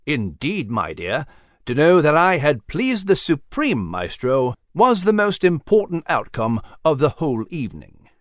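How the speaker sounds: fond old gentleman thanking his pet, lightly voiced; gentle old mouse. Nigel voiced in story.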